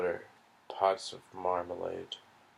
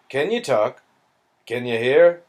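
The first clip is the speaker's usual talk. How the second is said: concerned Englishman; 4 semitones higher, 10 dB louder than usual. Acted. Englishman questions the dazed boy.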